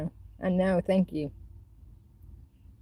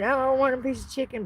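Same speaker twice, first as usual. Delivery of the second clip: begging for chicken; 6 semitones higher, faster than usual. Retold or imitated. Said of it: "begging for a piece of chicken".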